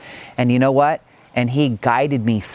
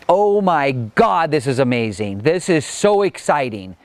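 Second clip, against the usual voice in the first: imitating thrilled coach; 2 semitones higher than usual. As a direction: mildly play up a life coach's delight. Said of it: "And his response was".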